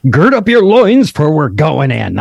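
rally the troops, half in jest; mock battle cry. Mock battle cry before lesson.

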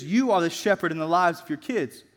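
"you" set off and emphasized; stress on YOU. Real, not acted. Preacher tells parents they are the shepherds, heavy emphasis on "you". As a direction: lean hard on the word "you". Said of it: "I put a huge emphasis on that word, you".

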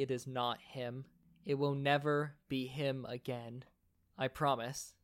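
calm, measured grounding voice; steady reassurance. Acted. Leo talking Julian out of a flashback, steady reassurance. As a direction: talk him gently back to the present. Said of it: "you just hear Leo go".

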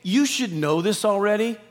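a light scolding as if from Paul; mild rebuking voice; rebuke tone. Retold or imitated. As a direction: chide them, you should know this by now. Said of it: "It's a rebuke tone".

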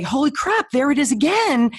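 as if you just caught the thought again; a playful gotcha; mock surprise. Shown as a demonstration.

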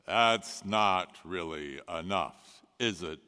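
clipboard disciple. Acted. Disciple with clipboard tells Jesus it isn't enough, mock-official. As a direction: play the disciple reading off his list with a wry point. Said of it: "that disciple went around with the clipboard".

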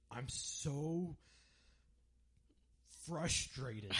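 high, loud mock-furious outburst; imitating frustrated friend. Josh raging in the car.

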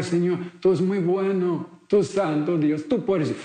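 pleading prayer. Retold or imitated. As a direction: beg the Lord as if in tears.

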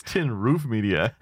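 Tin Roof Media with Roof leaned on heavily; stress on Roof. Shown as a demonstration. Host joking the brand is only about roofs, stress on Roof. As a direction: make Roof the word that matters in Tin Roof Media. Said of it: "it's just about roofs".

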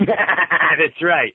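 said through a laugh; chuckling agreement. Real, not acted. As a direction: laugh the words out. Laughing reply to joke.

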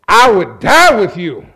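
loud, emphatic pledge; bold vow. Retold or imitated. Peter pledging himself to Jesus, bold vow. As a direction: declare it boldly, hitting 'die'.

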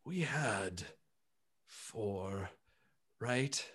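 low and soft, slowly counting; a confused giant noticing something is off; puzzled gentle elephant. Acted. Bertrand realizing two of the group are missing, low, soft and puzzled.

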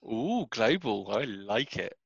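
slow West Country drawl on global; broad rural West Country voice; West Country accent. Real, not acted. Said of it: "Wow, I went really West Country then".

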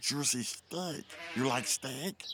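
low, slow, sly gopher voice; deep persuasive gopher voice. Acted. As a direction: drop into a deep tempting purr. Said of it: "don't slip into your deep voice".

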